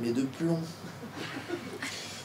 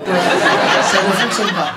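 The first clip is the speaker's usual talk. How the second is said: slow emphatic; 7 dB louder, much slower than usual. Acted. Slow laughing emphasis on failure.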